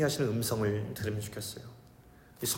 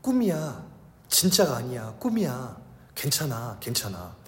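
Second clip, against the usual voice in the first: soothing. Retold or imitated. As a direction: comfort a frightened child, gently. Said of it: "이렇게 얘기했어요".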